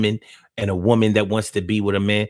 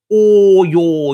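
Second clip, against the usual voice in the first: loud, high call-out to the crowd; shouted sign-off; 6 semitones higher, 9 dB louder than usual. Real, not acted. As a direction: belt out all y'all.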